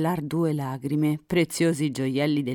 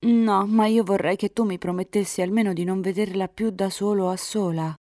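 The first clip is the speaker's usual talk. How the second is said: insistent heroine; 6 semitones higher, 3 dB louder than usual. A narrator's reading. Girl bargains for a promise.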